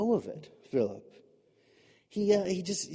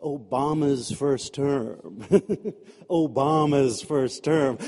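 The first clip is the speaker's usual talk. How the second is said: evocative phrase; 5 semitones lower, slower than usual. Shown as a demonstration. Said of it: "can't you just feel the endorphins rush".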